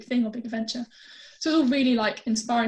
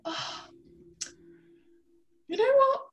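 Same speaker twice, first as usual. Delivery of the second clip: much higher, eager gushing agreement; mock excited yes; 9 semitones higher than usual. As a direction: throw caution away, gush yes. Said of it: "I was like".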